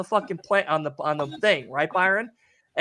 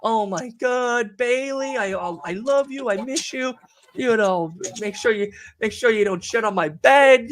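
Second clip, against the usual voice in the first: mock tearful goodbye; 5 semitones higher than usual. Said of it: "So I'm like".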